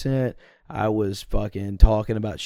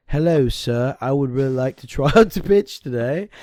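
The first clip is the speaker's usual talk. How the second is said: polite mock British accent; lightly voiced posh British schoolboy asking the coach; young pitcher politely asks coach, in a mock British accent; put-on British accent; 3 semitones higher, 4 dB louder than usual. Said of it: "And you used this accent?".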